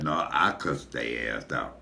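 low, slow retold admission; low-pitched, unhurried mock boast; smug confession. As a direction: own up to it slowly and without shame. Own gleeful confession against crying sister.

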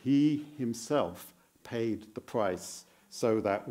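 slow, he himself weighted word by word; stress on himself. Shown as a demonstration. Preacher explaining the psalm, stress on himself. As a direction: press each word of he himself. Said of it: "Emphasis on himself".

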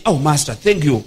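low-pitched imitation of humble thanks; mock gratitude. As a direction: act out a grateful disciple, voice dropped. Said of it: "will be grateful and say".

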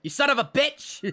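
high-pitched indignant cry; hammed-up high exclamation; mock outrage. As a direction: curse them out in playful fury. Mock fury after screaming.

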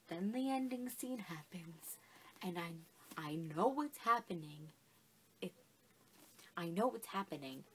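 soft, low, whispered build-up; hushed suspense. Retold or imitated. Retelling reading the ending in bed, hushed and low. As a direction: draw the listener in, low and secret.

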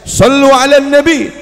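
loud, slow call of sallu ala nabi; called-out blessing. Acted. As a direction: call out to calm the quarrel. Calming two men quarrelling loudly.

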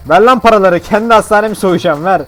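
loud, pushy robber shout; loud demand. Pretend. Player robs his own hospital, loud demand. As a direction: bark for the cash.

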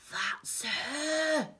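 high, eager villain voice; high-pitched character voice; Hugh the crook. A narrator's reading. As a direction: voice a bad man spotting his prey. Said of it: "said Hugh".

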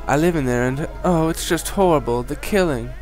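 frightened townswoman. Acted. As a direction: plead for help as a scared villager. Townswoman continues.

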